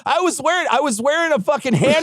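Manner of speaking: high, overly polite apology voice; mock-sheepish Midwestern apology; apologetic shooting victim. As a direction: play the sorry guy, eager to apologize. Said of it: "That guy's like".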